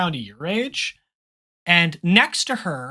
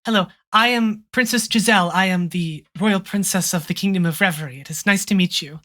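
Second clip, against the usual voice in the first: gentle princess; faster than usual. Acted. Princess introduces herself.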